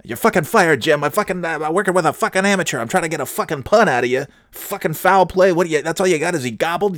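high, loud screaming anchor tirade; imitated furious anchor. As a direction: blow up at the cohost like a raging boss. Anchor firing cohost Jim.

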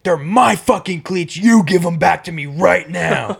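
angry customer's demand, volume kept down; slow, emphatic imitation of an irate customer; held-back mock scream. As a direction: imitate a furious yell without really yelling. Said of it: "Like, screaming. I'm not screaming".

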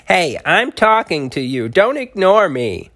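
high tiny outraged voice. Acted. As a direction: demand attention like an angry little turtle. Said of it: "the source of the outrage".

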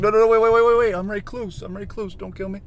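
high-pitched panicked spider voice; frantic little creature pleading; Recluse. Retold or imitated. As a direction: beg for your life in a squeaky put-on voice. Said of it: "freaking Recluse, the spider, comes up".

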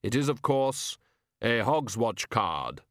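lightly voiced Death, measured and grave; solemn, careful delivery; a hint of Death, near the narrator's own voice; Death's voice. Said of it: "said Death".

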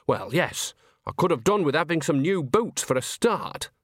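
a touch of wistful grumbling; Nanny, mildly grumbling. Acted. Nanny answers Granny about money, mildly grumbling.

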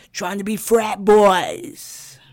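whisper. Real, not acted. Whispered mocking aside.

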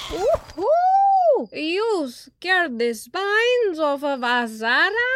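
very high squawking bird, half laughing; squawking macaw. A narrator's reading. Macaw Ara apologizes to the startled friends, squawking. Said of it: "Ara squawked apologetically".

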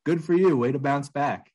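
high, loud chirpy praise; hammed-up peppy pat on the back; cheery congratulation. Coworker answering a homeless confession, chirpy mock praise. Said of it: "the other person comes back with".

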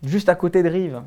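put-on Genevan accent, lightly done. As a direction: play a proud local with a Geneva accent. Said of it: "t'as perdu ton accent genevois". (accent genevois joué)

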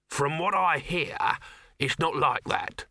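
slow, drawn-out hawker's voice; knowing street vendor. Acted. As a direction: confide it slowly as a know-all salesman. Dibbler confides what he has heard.

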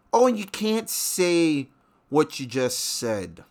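mocking whiny voice. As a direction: parody the easily offended. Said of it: "you fucking people who got offended".

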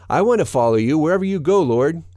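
high, quick, eager voice; eager follower. A narrator's reading. Man on the way offers to follow Jesus, high and eager. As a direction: pitch it up and hurry it eagerly.

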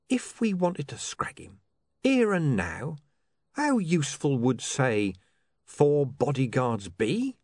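lightly voiced smooth, measured crook; smooth schemer. Mister Pin questions his partner about bodyguards, smooth and measured. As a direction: reason patiently with a dim partner.

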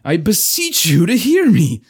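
forced calm. Acted. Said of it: "forcing himself to speak calmly".

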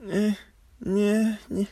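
short high grunts; high, halting noises in place of words; mock Al's wordless replies; imitated non-answer. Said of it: "and Al goes".

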